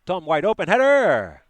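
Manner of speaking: a sudden loud, high call of the chance; excited shout. Real, not acted. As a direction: shout it as the header goes up. Big chance in the match.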